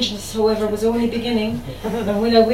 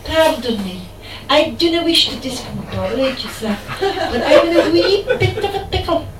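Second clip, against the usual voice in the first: put-on Scottish voice, climbing higher as the plea goes on; distressed Scottish accent; 5 semitones higher, 4 dB louder than usual. Man stuck in toilet cubicle calls out, distressed Scottish accent. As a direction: do a flustered Scotsman calling out through a door. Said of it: "in distress in a Scottish accent".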